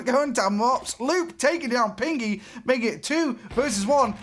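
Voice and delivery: high, fast frantic play-by-play; excited call. Real, not acted. Caster calling a chaotic overtime round, excited. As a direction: race to keep up with the kills.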